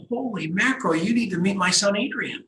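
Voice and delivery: high-pitched retold exclamation; excited realisation. Host telling a stranger to meet his son, excited realisation. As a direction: quote your own delighted discovery, pitched well up.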